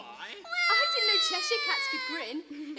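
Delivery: surprised. Acted. Surprised girl.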